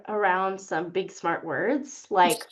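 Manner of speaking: amused, laughing delivery; laughing through jargon. Real, not acted. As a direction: chuckle out the big word. Mock-fancy jargon, laughing.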